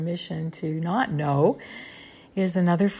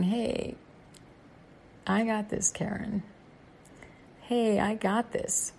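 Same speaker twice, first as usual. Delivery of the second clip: lightly voiced, higher-pitched reassurance; unhurried, lilting comfort from above; reassuring inner voice; 4 semitones higher than usual.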